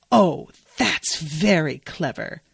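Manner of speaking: slow, drawn-out delight in a lightly put-on voice; delighted Mary. Podcaster imitating a delighted Mary to listeners, mildly voiced. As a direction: savour each word like a pleased pupil.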